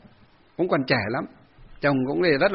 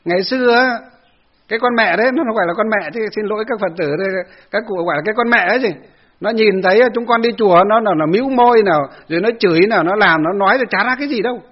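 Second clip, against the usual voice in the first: put-on raised, louder indignant old woman's voice; old temple lady complaining; 3 semitones higher, 3 dB louder than usual. Old devotee complaining to the monk, raised and indignant. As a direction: huff through the grievance like an aggrieved elderly devotee. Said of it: "Bảo, "Bác, à, bảo".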